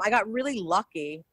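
"lucky" given extra weight and lift; stress on lucky. Real, not acted. Actor crediting chance for an early break, stressing "lucky". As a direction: lean on the word "lucky". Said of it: "I stress the word lucky".

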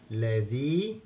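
لذيذ with a long ee, then a sounded "dhin"; tanween with kasra. Shown as a demonstration. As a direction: end لذيذ on an audible "in". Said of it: "تنوين بال-، بال-، بالكسر". (لذيذ بتنوين الكسر، نون مسموعة في الآخر)

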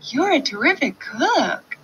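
high piglet voice. Acted. Piglet flatters fox.

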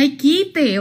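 mild contemptuous scoff; with contempt. Retold or imitated. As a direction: wave him off with disdain. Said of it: "así con desprecio".

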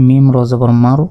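"মার" said with no nasal hum; without ghunna. Shown as a demonstration. Teacher spelling out for learners, without ghunna. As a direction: go straight into the r of "মার". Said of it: "গুন্না ছাড়া পড়তে হবে".

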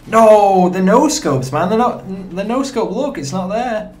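high-pitched outcry, loud at the start; real exasperated protest. Real, not acted. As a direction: protest in disbelief at the game. Protests missed no-scope mid-game.

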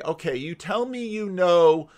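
slow, deliberate challenge; James Tour. Retold or imitated. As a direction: imitate a biochemist slowly calling someone's bluff. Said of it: "people like James Tour that say".

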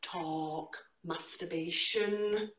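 slow, rhythmic spoken-word delivery with big pitch leaps; dramatic poetry reading with slow, stretched lines; performance poetry. Acted. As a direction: perform the poem to a live room. Performs her poem live.

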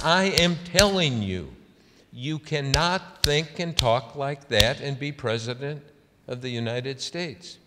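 intense. Retold or imitated. Senator lecturing a reporter as fists fly, intense. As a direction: act out a heated telling-off, hitting the opening hard. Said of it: "She really got, uh, intense".

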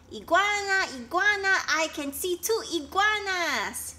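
high, loud, thrilled calling out; excited shout. A narrator's reading. Flocky shouting to friends about spotting iguanas, high and excited. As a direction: shout it out, delighted at the find. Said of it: "shouted Flocky".

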